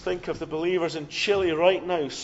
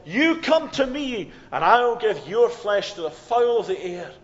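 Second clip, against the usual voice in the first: threatening giant; 3 semitones higher, 5 dB louder than usual. Acted. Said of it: "threatening Philistine giant who said".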